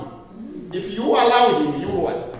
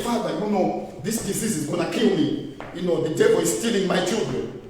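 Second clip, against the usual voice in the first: lower, softer pleading prayer; weak whining prayer; 5 semitones lower, 4 dB quieter than usual. Shown as a demonstration. Preacher mocking a fearful prayer: low, soft, defeated pleading. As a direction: beg like you have already given up. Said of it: "Don't pray and say".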